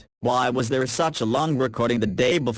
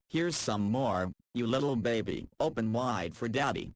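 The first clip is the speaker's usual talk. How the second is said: hushed teasing to a tipsy friend; teasing baby talk; 9 dB quieter than usual. Acted. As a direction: coax her like a toddler at dinner. Feeding drunk friend like a baby.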